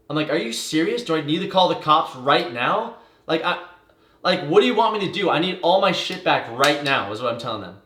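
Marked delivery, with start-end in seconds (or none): 0.3-7.1 raised but not screaming; firm retold demand, voice up a little; stern confrontation, stopping short of yelling. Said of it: "I'm just being very stern".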